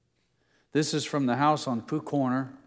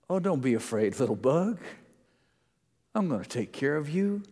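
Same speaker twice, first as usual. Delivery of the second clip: loving father; 3 semitones higher than usual. Acted. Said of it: "like a father full of love to a little child".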